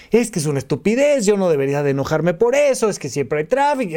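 rushed, annoyed self-reproach; fast self-scolding. Retold or imitated. Stuck in traffic, a quick irritated inner rant. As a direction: rattle off the excuses against your own anger.

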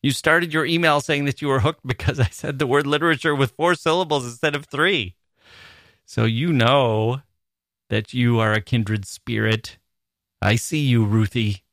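emphatic, punched-out mock accusation; mock all caps. Host tells a listener she's a kindred spirit, mock all-caps emphasis. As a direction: hammer the key words as if in capitals. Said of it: "I'm saying this in all caps now".

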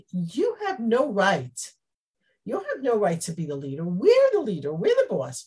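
haughty, indignant claim to leadership; arrogant jealousy. Retold or imitated. Ephraim's men scorning the leader, haughty and indignant. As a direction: puff up and demand the crown. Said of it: "jealousy and arrogance and a feeling like".

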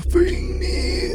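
high wailing ghost, drawn out. Pretend. Ghost impersonation for a friend, high wailing moan. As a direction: moan it like a spirit. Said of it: "ghost impersonation".

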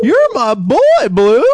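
loud, high excited shout; Old School quote. Retold or imitated. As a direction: yell it like the movie. Quoting Old School line.

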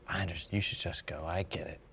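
hushed understanding. Retold or imitated. Older woman lets him leave.

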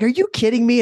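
put-on high, outraged little-girl voice; imitating toddler daughter. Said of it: "she's three. She's like".

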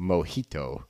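mimicking "Mojito" with an exaggerated "hi"; imitated over-enunciation. Teasing co-host over their pronunciation, over-enunciated "Mojito". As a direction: echo "Mojito", leaning on the middle syllable. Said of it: "You really enunciated the he".

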